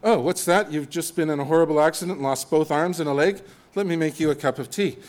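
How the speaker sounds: chirpy British calm over disaster; lightly voiced unflappable British host offering tea; mock British. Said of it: "They can solve any problem ... cup of tea".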